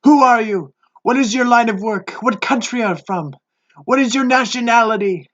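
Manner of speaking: interrogating sailors. Acted.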